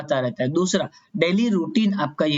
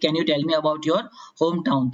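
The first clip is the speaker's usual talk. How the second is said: examiner's question; 3 semitones lower, much slower than usual. Shown as a demonstration. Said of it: "आपको बोल दिया कि".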